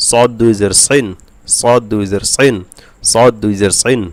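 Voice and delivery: thick, full-mouthed s in সদ and সিন; সিন coloured towards "sen" by a heavy s; heavy Sad. Shown as a demonstration. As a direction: drill সদ, সিন with emphatic Arabic s, darkened vowels. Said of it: "সদ মোটা হবে".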